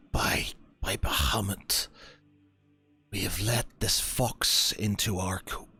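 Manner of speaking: slow, half-whispered realisation; hushed dread. Acted. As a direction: breathe it out as the horror dawns. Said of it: "and he says".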